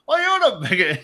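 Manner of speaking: a rough attempt at a drunk Irish accent. Drunk Irish stranger accosting two visitors, badly faked Irish accent. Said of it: "drunk Irish guy walks up and starts going".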